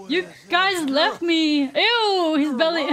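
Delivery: high, loud mock accusation turning to disgust; high-pitched, worked-up reaction; excited outcry. Real, not acted. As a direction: cry out at friends, then recoil. Reacting to reunion in game.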